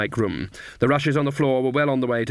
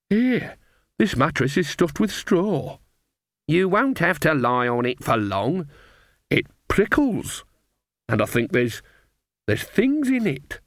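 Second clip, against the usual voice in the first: put-on higher, slower grumbling old lady; complaining old woman; 5 semitones higher, slower than usual. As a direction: fuss about the prickly straw. Nanny complains about mattress.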